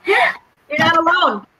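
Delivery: a real catch of tears while comforting the host; choked up. Real, not acted. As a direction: say it through held-back tears. Comforting a grieving pet owner.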